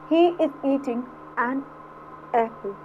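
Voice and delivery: words drawn out slowly; slow teaching read. Shown as a demonstration. Teacher reading the example slowly to students. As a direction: read it slowly so they hear the vowel. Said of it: "ए की आ रही है".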